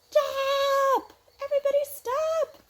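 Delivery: high, loud roaring order; lion halting the animals at the cliffs, shouting; commanding shout. Acted. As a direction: stop the whole stampede with one cry. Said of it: "And the lion says".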